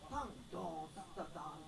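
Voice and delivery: vocalise the drum entry, lightly; sung-out drum count-in. Shown as a demonstration. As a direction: mouth the drum hits as a demo. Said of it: "タンで入ります？". (口でドラムの入りを再現)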